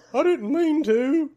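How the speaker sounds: high, slow, laughing little excuse; meek excuse. Retold or imitated. James meekly excusing himself to the coach, high and laughing. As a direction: whimper it like a caught kid. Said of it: "James's response after five minutes of interrogation".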